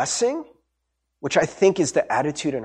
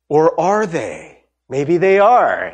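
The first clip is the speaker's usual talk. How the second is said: playful suspense; 4 dB louder, much slower than usual. Pretend. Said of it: "teasing aside to congregation".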